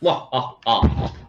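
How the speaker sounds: slow villain cackle; short mock evil laugh. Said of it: "Bros are evil".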